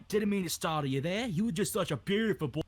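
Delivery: Aussie soothing an animal; Australian accent. Pretend. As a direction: apologise in a put-on Australian accent. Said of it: "Australian accent".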